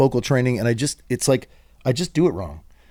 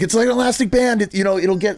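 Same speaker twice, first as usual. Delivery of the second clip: reassuring wife; 10 semitones higher, 4 dB louder than usual. Retold or imitated. Wife reassuring him, voiced high.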